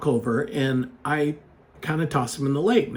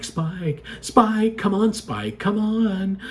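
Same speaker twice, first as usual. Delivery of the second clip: calm calling; 5 semitones higher, much slower than usual. Retold or imitated. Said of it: "calling him more calm".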